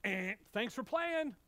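buzzer noise, then mock-host dismissal; lightly voiced game-show send-off; game-show rejection. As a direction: dismiss them like a losing contestant.

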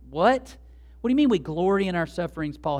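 sharp rising "What", then quick questioning; incredulous. Acted. Preacher questioning Paul about glorying in sufferings, incredulous. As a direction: challenge it in mock disbelief. Acts out a baffled challenge to Paul.

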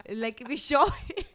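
breaking up into real laughter mid-phrase; laughing. Real, not acted. Cracking up over slip of tongue.

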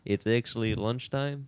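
lightly put-on Russian-sounding French accent; soft, Russian-tinged accent. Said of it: "is he a Russian accent".

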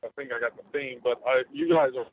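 cutting out on a bad line; choppy breaking-up phone audio; radio breaking up. Real, not acted. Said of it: "you're cutting out".

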